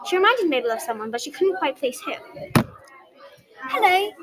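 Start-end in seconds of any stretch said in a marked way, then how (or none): 3.7-4.1 bright high Hello, piped up; piping up. A narrator's reading. Girl greets Mabel in the elevator, piping up high. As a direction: chirp a friendly hello. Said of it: "the girl piped up".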